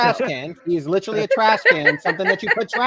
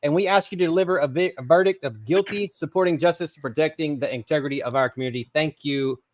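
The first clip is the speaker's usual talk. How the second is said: mock courtroom closing argument; formal speech; 3 semitones lower than usual. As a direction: address the jury like a lawyer. Mock closing statement to jury.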